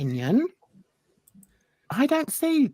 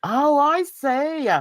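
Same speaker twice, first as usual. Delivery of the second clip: sarcastic; 5 semitones higher than usual. Acted. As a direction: drag out a mock realisation. Sarcastic reply to comment.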